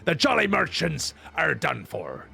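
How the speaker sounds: a salty old pirate, lightly voiced; hammed-up pirate storyteller; gruff pirate. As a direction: growl the lines like a sea dog. Reads pirate NPC dialogue aloud.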